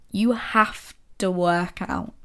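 slow, dragging "have to work out" said as a chore; heavy reluctant sigh of a line; grudging. Shown as a demonstration. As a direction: drag it out like something you dread. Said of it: "The emotion behind these things is so different".

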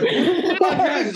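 laughing disbelief. Retold or imitated. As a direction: blurt it out mid-laugh. Asking buddy, laughing in disbelief.

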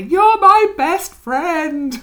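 sudden high, slow, loud boozy declaration of friendship; tipsy gushing friend. Retold or imitated. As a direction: slur it out like an overfriendly drunk. Drunk friend gushing after drinks.

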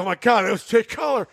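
imitating a slurring drunk fan; drunken slurring. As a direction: play the starstruck drunk buddy. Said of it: "slurring his words like a motherfucker".

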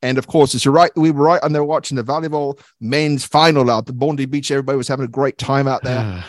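put-on Aussie accent, chatty; Australian accent. Host recalling volleyball at Bondi Beach, in put-on Australian accent. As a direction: talk like a cheery Australian local. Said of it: "Australian accent".

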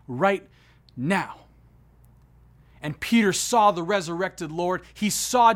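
driving, emphatic sermon delivery; impassioned preaching. Real, not acted. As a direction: preach it with building conviction. Preaches with rising force.

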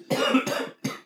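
dry hacking smoker's cough. Real, not acted. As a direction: hack out a real smoker's cough. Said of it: "Smoker's cough".

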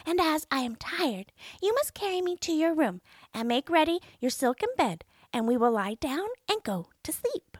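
high little frog voice; demanding frog. A narrator's reading. Frog asking the princess to share her plate, high voice. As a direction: ask it as the pushy frog. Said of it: "said the frog".

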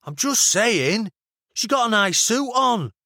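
high-pitched, defensive Mancunian; casual Mancunian excuse; Mancunian accent. A narrator's reading. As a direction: shrug it off in a Manchester accent. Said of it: "the over-enunciated vowels she was already learning".

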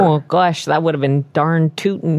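gosh-darn Minnesota officer; Minnesota accent. Acted. Officer agreeing with his partner, mock Minnesota accent. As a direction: play up the folksy Minnesota sound. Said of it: "the most Minnesota-sounding accent".

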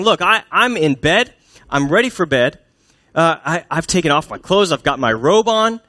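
mock protest, pitch jumping on key words; exasperated wife. Tired wife already in bed turning husband away, exasperated. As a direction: list excuses like a put-upon wife.

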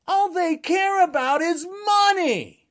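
slow emphatic shout; ranting shout about greed. Real, not acted.

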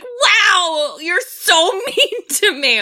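high, whiny mock of a bratty teen; whiny bratty girl. Friend mocks the movie's bratty teen, high whiny voice. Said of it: "she was like".

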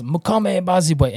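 lifted joyful proclamation; calling out praise. Retold or imitated. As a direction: call out the praise to the crowd. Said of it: "someone goes".

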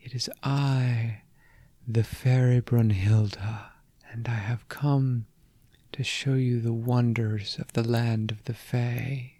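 lilting fairy voice, hushed and sweet; melodious fairy voice. Acted. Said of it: "in her most melodious fairy voice".

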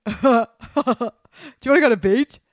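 put-on high and loud American surfer accent; chirpy California surfer dude greeting the guys; Californian surfer dude. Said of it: "I think he'd sound like".

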